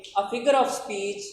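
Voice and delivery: very slow, word by word reading; slow classroom read-aloud; slow dictation reading. Shown as a demonstration. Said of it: "इसको पढ़ें ज़रा देखें".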